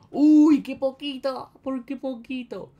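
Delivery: high, loud startled cry; near-miss surprise. Real, not acted. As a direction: gasp at the close call. Narrow escape in the game.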